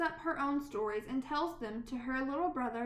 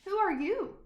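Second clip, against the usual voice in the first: higher, louder eager questions; children crowding round, higher and louder; curious children; 6 semitones higher, 5 dB louder than usual. Acted. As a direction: call out like excited kids. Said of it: "the children ask".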